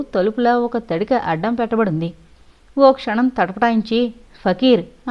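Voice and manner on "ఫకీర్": calling out into the dark hut; loud call. Acted. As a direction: call the name loudly toward the hut. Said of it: "గట్టిగా పిలిచాడు".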